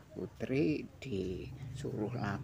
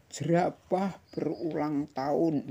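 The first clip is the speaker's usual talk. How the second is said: put-on reading to children; 6 semitones higher, 6 dB louder than usual. A narrator's reading. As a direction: clear storybook read-aloud. Reading picture book aloud.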